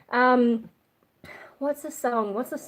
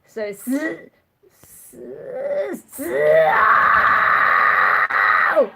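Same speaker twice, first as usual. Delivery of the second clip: hissing s into scream; 2 semitones higher, 9 dB louder, much slower than usual. Shown as a demonstration. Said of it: "you make that z sound".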